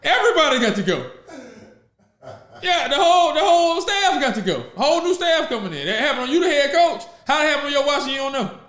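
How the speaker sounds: high-pitched outraged scolding; indignant confrontation. Acted. Fan confronts head coach over staff crimes, indignant. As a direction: tell off the boss, voice climbing high.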